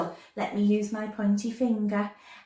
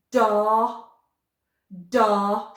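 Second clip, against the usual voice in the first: loud, ringing Door; loud modelling; 6 dB louder than usual. Shown as a demonstration. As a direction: call the word out loud. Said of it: "Shout it out".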